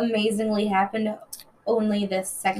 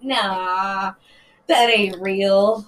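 disbelieving; 3 semitones lower, 3 dB louder, much slower than usual. Retold or imitated. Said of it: "and I'm like".

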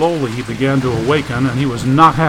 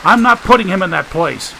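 shouting; 10 semitones higher than usual. Acted. Shouting in the storm.

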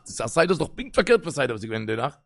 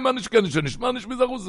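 high wailing plea; crying out; 7 semitones higher than usual. Retold or imitated. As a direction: beg through tears, voice up high. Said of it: "אלע זאלן שרייען". (ווייניק געשריי)

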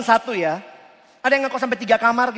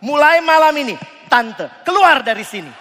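mock eviction shout; 4 semitones higher, 5 dB louder than usual. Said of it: "kau bilang".

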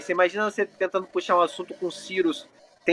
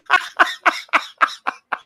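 high laugh; 11 semitones higher than usual. Real, not acted. Laughing at the joke.

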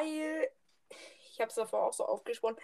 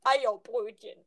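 meme quote voice; 3 semitones lower, slower than usual. Retold or imitated. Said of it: "Ich sag nur eins".

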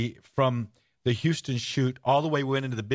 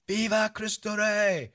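high, slow call across the desert; yelled call; 9 semitones higher, slower than usual. Retold or imitated. Calling to men posted on the ridge, a high ringing yell. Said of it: "And then I yell to them".

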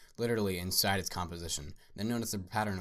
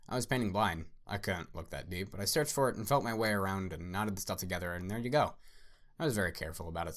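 mad scientist. Acted. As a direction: rant like a gleeful madman. Ruiz the mad artist rants.

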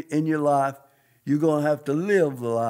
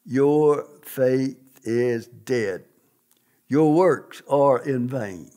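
slow, lower, weighty voice of God; God's thunder voice; 3 semitones lower, much slower than usual. Retold or imitated. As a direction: lay down each word like a divine verdict. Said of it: "in a voice that sounded like thunder".

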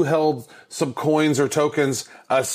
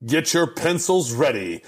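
booming monster truck rally announcer. Acted. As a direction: hype the number like a truck rally ad. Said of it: "That's kind of your monster truck rally voice".

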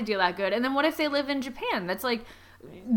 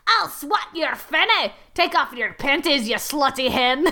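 gnome voice; 3 semitones higher, slower than usual. Acted. The spokes gnome propositioning Tracy, mock seductive. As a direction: ham up the gnome's line. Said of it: "The spokes gnome moves in and says".

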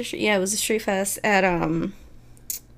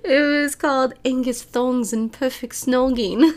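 playful mock British accent on the title; 3 semitones higher than usual. Vlogger saying a British film title in a light British accent. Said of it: "I had to say it in an accent".

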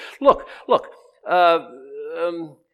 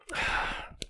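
weary sigh; 11 dB quieter than usual. Retold or imitated. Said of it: "Different emphasis".

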